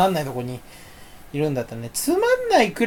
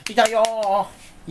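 mock whine; 3 semitones higher, much slower than usual. Complaining of pain.

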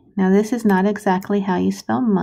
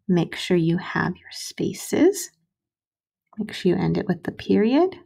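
whisper. Acted. Reminder to the children.

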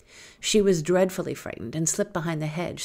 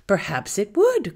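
cunning; 4 semitones higher, 5 dB louder than usual. Acted. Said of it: "quoth cunning Bopalucci".

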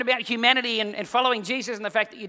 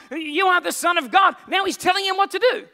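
loud, high disbelieving shout; incredulous shout; 7 semitones higher, 4 dB louder than usual. Real, not acted. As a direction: drive home the outrage. Preacher stressing Peter's audacity.

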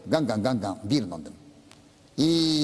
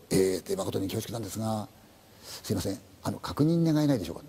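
reluctant policeman; 6 semitones lower than usual. Acted. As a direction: ask the dreaded favour haltingly. Policeman asks for identification.

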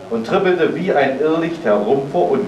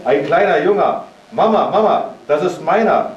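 put-on higher and eager, a child's excited outburst; a little girl bursting with excitement; excited cry; 4 semitones higher than usual. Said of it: "stieß einen Schrei aus". (aufgeregter Kinderausruf, etwas höher)

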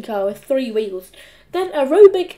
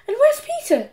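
questioning; 13 semitones higher than usual. A narrator's reading. Mum questions Henry.

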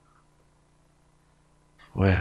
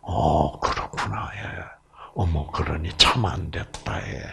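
soft sympathetic agreeing; 8 semitones lower, 9 dB quieter than usual. Retold or imitated. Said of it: "일단 뭐예요?".

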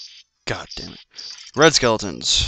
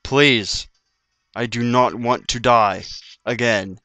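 slow, word-by-word begging; desperate pleading; slower than usual. Real, not acted. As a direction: plead with the game, spacing out each word. Begging the game for health.

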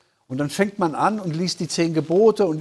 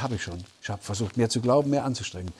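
weary defeated reply; 6 semitones lower, 5 dB quieter, faster than usual. Acted. Despairing believer answers the counsellor.

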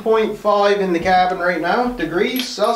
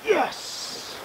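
whispered cheer; 11 semitones higher, 10 dB quieter than usual. Real, not acted. Whispered triumph after a shot.

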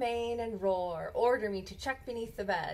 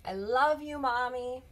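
put-on child's love; 3 semitones higher than usual. Child says goodnight.

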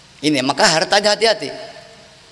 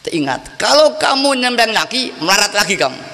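threatening; 3 semitones higher than usual. Retold or imitated. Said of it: "Saya ancam". (ancaman tegas yang ditirukan)

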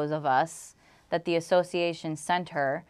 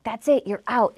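louder, higher imitation of an angry landlord; retold outburst; 5 semitones higher, 5 dB louder than usual. Landlord throwing papers at tenant, imitated angry outburst. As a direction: act out her final eviction order.

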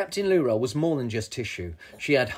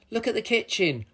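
high exclamation of alarm; dismayed cry; 8 semitones higher than usual. A narrator's reading. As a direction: cry out at the mess. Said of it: "cried Vic".

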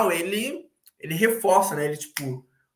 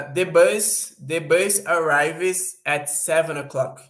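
slow, deliberate English example; slow example read; much slower than usual. Shown as a demonstration. Teacher reading the bus example slowly to students. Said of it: "example sentence demo".

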